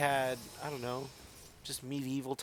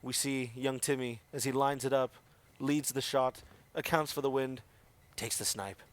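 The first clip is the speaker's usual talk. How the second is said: nature documentary; 2 semitones lower than usual. Acted. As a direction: describe it like a wildlife film. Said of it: "narrate in that voice".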